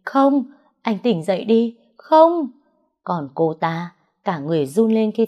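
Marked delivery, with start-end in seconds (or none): 0.0-1.8 high, loud desperate cry; screaming. A narrator's reading. She screams at her fallen lover to wake. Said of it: "Tôi hét lên". 2.0-2.5 much higher, very loud shriek of no; piercing scream. A narrator's reading. She shrieks as her lover collapses, screaming. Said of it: "Tôi hét lên".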